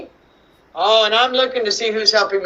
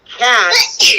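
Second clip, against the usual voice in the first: single words, slowly stretched out; word-by-word reading. Shown as a demonstration. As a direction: say each word slowly for early readers. Reading aloud for children to follow.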